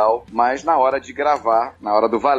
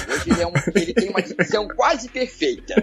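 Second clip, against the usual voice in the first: higher cartoon dad voice, clear diction; Ricardo voice without the lisp; 7 semitones higher than usual. Shown as a demonstration. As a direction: pitch up but keep every s crisp. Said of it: "faz só assim".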